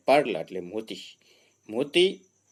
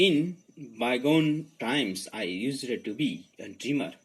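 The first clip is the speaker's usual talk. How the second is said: slow, measured stanza reading; poem reading; much slower than usual. Acted. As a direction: read the verse slowly, phrase by phrase. Reads the stanza aloud.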